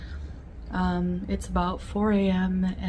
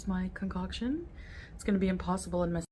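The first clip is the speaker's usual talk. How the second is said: hushed whisper to the camera; 8 dB quieter, faster than usual. Real, not acted. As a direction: keep it barely audible. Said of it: "whispering to the camera".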